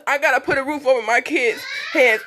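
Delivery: tearful, voice catching mid-sentence; crying while she lists what she provides. Real, not acted. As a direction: speak through real tears. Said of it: "I'm crying because".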